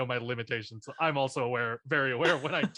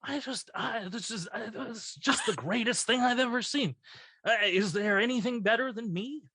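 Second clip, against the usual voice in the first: higher halting aged Shatner; older Bill Shatner; 6 semitones higher than usual. Shown as a demonstration. Doing older Bill Shatner for the friends, halting and grand. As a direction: drag out the halting pauses like an old Shatner. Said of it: "I do older Bill Shatner".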